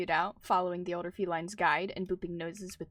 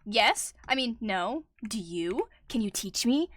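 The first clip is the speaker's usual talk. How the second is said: eager, quick, a bit louder; excited; 2 semitones higher, 5 dB louder, slower than usual. Acted. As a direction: blurt it out, thrilled to ask. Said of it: "he meowed out excitedly".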